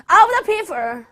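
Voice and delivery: climbing to a huge, drawn-out shout; Lincoln's rousing cry. Retold or imitated. Teacher booming Lincoln's words to wake the class. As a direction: proclaim it like a speech to a crowd. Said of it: "오늘 좀 심하지, 선생님이?".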